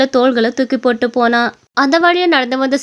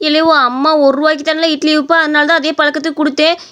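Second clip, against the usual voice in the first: protesting grandma customer; 3 semitones higher than usual. Acted. Old customer disputing the new price, aggrieved. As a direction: argue the unfair price.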